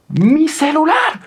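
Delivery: grito agudo y estirado, alarmado; suéltalo alto y lento al ver el robo. Retold or imitated. (grito alarmado porque le roban el celular)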